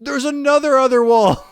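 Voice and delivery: very high, loud squeal; high squeaky exclaim. Pretend. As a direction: squeal it like a cartoon.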